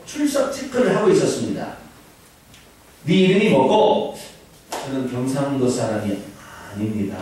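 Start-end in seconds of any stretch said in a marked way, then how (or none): 3.0-4.2 lightly voiced Gyeongsang dialect teacher asking; a hint of a Gyeongsang schoolteacher. Teacher taking attendance, lightly Gyeongsang-accented. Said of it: "경상도 선생님이".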